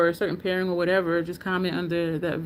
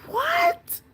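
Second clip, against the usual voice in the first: high squeaky double take; a stunned, squealed what; shocked disbelief. Retold or imitated. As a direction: pitch leaps up in stunned disbelief. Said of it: "I was just like".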